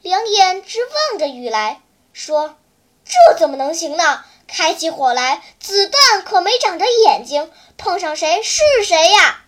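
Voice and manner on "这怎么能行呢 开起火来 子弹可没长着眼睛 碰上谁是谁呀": louder, stern telling-off; displeased scolding. Acted. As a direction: scold the reckless boy. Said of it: "杜少英不高兴地皱起了眉毛". (不高兴地训斥)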